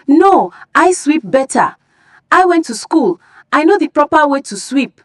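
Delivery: high, proud schoolgirl boast; girl boasting to win over Mama Emeka; boastful. Acted. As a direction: show off your schooling. Girls compete to impress.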